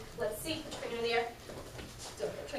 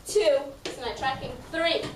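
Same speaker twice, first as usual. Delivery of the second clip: loud; 5 dB louder than usual. Real, not acted. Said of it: "loud and proud voice".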